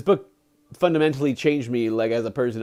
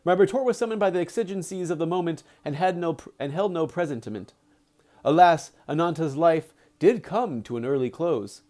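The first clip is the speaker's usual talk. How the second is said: deliberate audiobook-style reading with acted dialogue; story narration; 3 semitones higher than usual. A narrator's reading. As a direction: read the book aloud with measured phrasing. Reads the book aloud.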